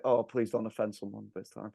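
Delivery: pleading caretaker. Retold or imitated. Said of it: "I'm just like".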